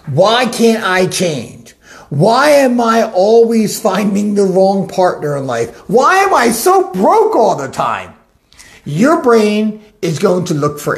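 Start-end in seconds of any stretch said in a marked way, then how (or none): 0.1-8.1 mock despair. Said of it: "say something with enough conviction".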